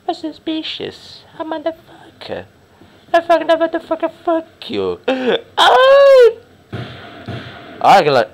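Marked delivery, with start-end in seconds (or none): 0.1-5.0 shrill mocking squeak; squeaky mock voice. Mock high voice, game banter. 5.6-6.4 high laughing shriek; sudden squealing laugh-cry. Real, not acted.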